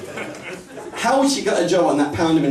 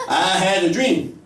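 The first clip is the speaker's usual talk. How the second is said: northern MLK; 3 semitones higher, slower than usual. Retold or imitated. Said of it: "Martin Luther King was Northern".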